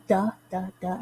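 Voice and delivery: first "the" stressed, the next two "the, the" lighter; "THE the the", strong, weak, weak; dactyl stress. Shown as a demonstration. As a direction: hit the first "the", let the other two drop. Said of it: "the first syllable is emphasized".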